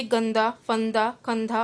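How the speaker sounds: गंदा, फंदा, कंधा slow, air through the nose on the dot; careful example words with a nasal n; nasal anusvara. Shown as a demonstration. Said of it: "वायु नाक से निकलती है".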